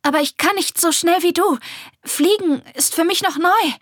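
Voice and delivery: high, loud protest; calling out. A narrator's reading. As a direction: plead loudly to be waited for. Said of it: "rief Esmina".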